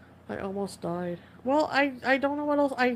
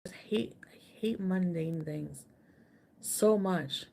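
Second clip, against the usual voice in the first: whisper; 3 semitones lower, 4 dB quieter, slower than usual. Real, not acted. Complaining, whispered.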